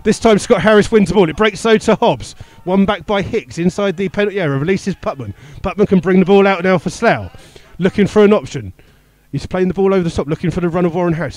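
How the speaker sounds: live play-by-play. Real, not acted. Commentator calling Teal's free kick for listeners, live play-by-play. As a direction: follow the ball from player to player.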